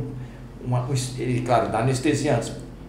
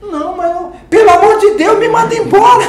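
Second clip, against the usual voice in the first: much higher and louder, through laughter; laughing disbelief; 14 dB louder than usual. Retold or imitated. Manager Thaís laughing in disbelief, high and loud.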